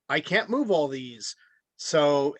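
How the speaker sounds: normal talking voice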